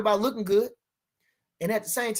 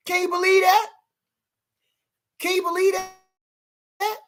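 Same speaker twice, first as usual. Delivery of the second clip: high disbelieving question, slowing down; mock amazement, drawn out; incredulous; 8 semitones higher, slower than usual. Real, not acted. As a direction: stretch out the disbelief. Incredulous about being ducked.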